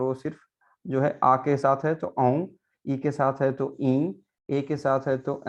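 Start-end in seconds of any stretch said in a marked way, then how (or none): 2.2-2.5 औं as one nasal vowel without M or N; nasalised vowel. Shown as a demonstration. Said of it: "नाक पे, नाक के". 3.5-4.2 ई drawn out through the nose; nasalised vowel. Shown as a demonstration. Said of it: "नाक पे, नाक के".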